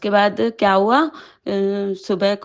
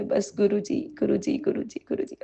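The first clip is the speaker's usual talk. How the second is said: softer, near-whispered repeated name; breathy murmured calling; 6 dB quieter than usual. Real, not acted. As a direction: murmur his name over and over, devoted. Devotee murmuring guru's name.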